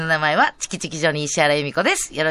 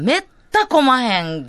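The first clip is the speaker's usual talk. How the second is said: drawn-out, higher Kansai exclamation; Kansai dialect; 6 semitones higher, 4 dB louder, slower than usual. Real, not acted. Host reports holiday traffic, in emphatic Kansai dialect. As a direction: stretch めった in broad Kansai speech. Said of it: "ちゃんとした日本語使っていきましょう".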